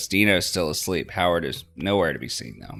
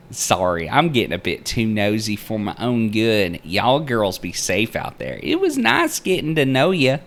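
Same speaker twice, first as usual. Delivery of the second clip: chirpy tour guide Linda; 5 semitones higher, 7 dB louder than usual. Acted. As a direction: sing it out like a cheery Southern aunt.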